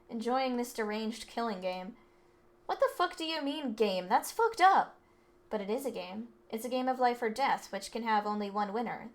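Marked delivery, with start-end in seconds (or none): 2.7-5.0 high, outraged disbelief. Acted. Student outraged at calling murder a game, angry disbelief. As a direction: throw the question back, offended and rattled.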